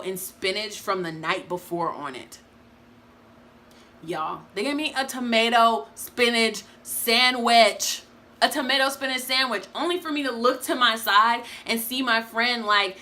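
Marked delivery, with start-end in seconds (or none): 4.0-8.0 slow, outraged and incredulous; higher and louder, in slow disbelief. Real, not acted. Outraged at bad meal. 8.4-9.6 "A tomato spinach sandwich" repeated higher, still appalled; higher, stunned repeat; disbelief. Real, not acted.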